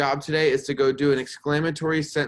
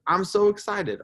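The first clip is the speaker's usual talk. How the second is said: high, louder burst of excitement; excited exclamation; 9 semitones higher, 4 dB louder than usual. Shown as a demonstration. Teacher reads an excited example to fourth graders, excited. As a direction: exclaim it as if thrilled. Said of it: "They show a strong emotion".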